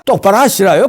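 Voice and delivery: put-on North Korean accent. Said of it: "사투리가 잘 안 되네".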